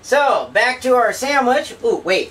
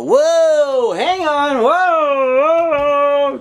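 startled whoa; 5 semitones higher, slower than usual. Real, not acted. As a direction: caught off guard by the oil. Oil spattering, startled.

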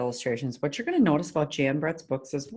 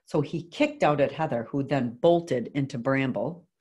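put-on measured read-aloud to children; story narration. A narrator's reading. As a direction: read a picture book to a class, clearly. Reads picture book aloud.

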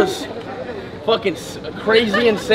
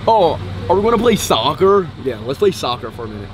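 American accent; 4 semitones lower than usual. Shown as a demonstration. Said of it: "this is the American accent".

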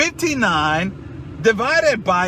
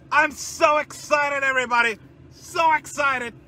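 mock excitement; 5 semitones higher than usual. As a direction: sell the fake thrill to viewers. Sarcastic cheering to viewers.

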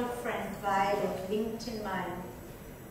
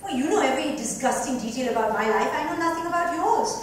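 heated retort; 3 semitones higher, 6 dB louder than usual. Acted. Friends quarrel, Mira retorts.

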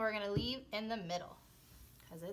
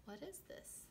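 mock surprise; 7 semitones higher, 16 dB quieter than usual. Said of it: "mock surprise for kids".

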